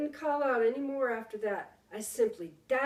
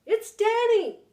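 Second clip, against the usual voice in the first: high loud call, the last words drawn out slowly; a son shouting for his missing father; 13 semitones higher, 12 dB louder, slower than usual. Acted. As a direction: hurl the question into the dark. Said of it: "I shouted".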